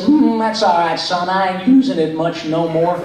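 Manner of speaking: a hint of an old country sidekick; old actor answering a young fan, lightly drawled; Pat Buttram voice. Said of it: "He said".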